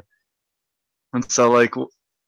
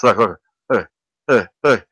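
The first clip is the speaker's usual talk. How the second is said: imitated mouth noises; mock flapping mouth; 4 dB louder than usual. Friends mocking LeBron's ever-flapping mouth, mimicked yapping. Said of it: "it's like this. It's like this".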